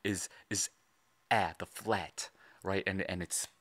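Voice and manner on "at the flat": "flat" set apart slowly; punched syllable. Shown as a demonstration. Commentator showing the first syllable, stress on "flat". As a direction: draw out and punch "flat" as the key sound. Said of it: "punching on, on that syllable".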